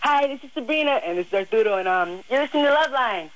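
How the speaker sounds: put-on switching between a girly voice and a dude voice; two voices. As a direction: flip from girl to guy mid-sentence. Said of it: "using, uh, both voices".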